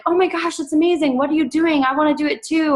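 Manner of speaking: high, gushing mock fan reaction; excited comment. Commenters gushing over a coach's results, excitedly. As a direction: imitate an eager commenter who is amazed. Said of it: "all these comments of, like".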